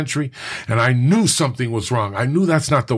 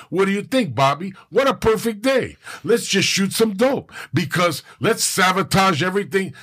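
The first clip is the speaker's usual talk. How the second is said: lightly voiced inner tempter, a bit higher; addiction's tempting voice; 6 semitones higher than usual. Speaker voicing his addiction, a mildly higher sly coaxing. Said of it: "This is the way my addiction works".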